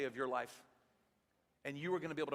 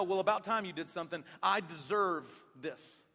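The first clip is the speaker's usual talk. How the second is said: entitled; 4 dB louder than usual. Pretend. An entitled woman demands her due, smug and loud. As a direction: drag out the sense of deserving. Entitled voice, what humility is not.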